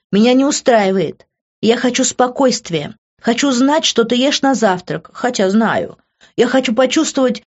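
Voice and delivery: high, loud, fervent pleading; heated and passionate. A narrator's reading. She pleads with Grant passionately, loud and heated. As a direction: pour your heart out to make him understand. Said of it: "говорила горячо и страстно".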